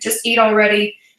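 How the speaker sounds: ordinary talk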